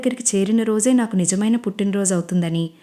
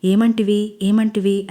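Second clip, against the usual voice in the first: a hint of a mythological hero declaiming; lightly hammed-up booming stage lines; grand stage dialogue; slower than usual. Manish playing a stage king for Anjali, mild grandeur. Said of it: "అని గంభీరంగా డైలాగులు చెప్తాడు".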